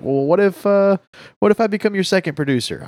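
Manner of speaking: high, quick, excited pitch; eager offer. Retold or imitated. Eager offer to become producer.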